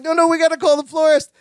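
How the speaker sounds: fast, high mock panic; frenzied. Balky correcting his wife about whom to call, frenzied. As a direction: rush it out high, imitating a flustered husband. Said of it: "they get all frenzy".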